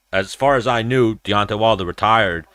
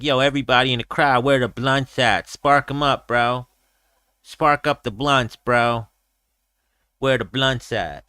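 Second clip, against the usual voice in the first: Nate Diaz; 2 semitones higher than usual. Retold or imitated. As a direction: lightly imitate a fighter rallying the crowd. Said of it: "That's what he was screaming too".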